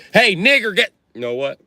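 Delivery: high, loud cut-off yell; mock angry outburst. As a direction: start yelling then stop short.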